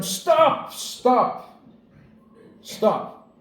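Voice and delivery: retelling the shout at the panicking driver; mock shout. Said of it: "I shouted at him".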